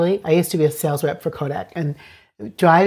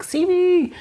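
put-on high childlike plea; little one's plea; 11 semitones higher than usual. The inner little one demanding to be seen, high and pleading. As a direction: cry out like a small child wanting attention. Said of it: "sometimes she's like".

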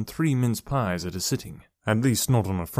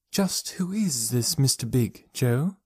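tactful, gentle; 3 semitones higher, slower than usual. Acted. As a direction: ease into the question gently and slowly. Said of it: "was more tactful".

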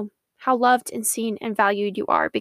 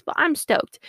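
stoked; 5 semitones higher than usual. Real, not acted. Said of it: "I don't know if you can hear it in my voice".

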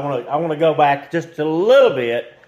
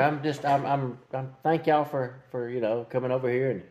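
lightly voiced tired old grandpa; hammed-up tired old man; 2 semitones lower than usual. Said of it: "Don't ham it up too much".

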